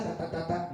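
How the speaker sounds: quiet, repeated stuttering syllables; mock stammering; imitated stutter. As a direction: mimic a stammer, trailing softly. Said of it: "tal vez era tartamudo".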